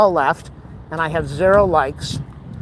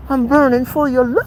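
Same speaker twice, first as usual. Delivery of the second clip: mock love song; 9 semitones higher than usual. Mock romantic line.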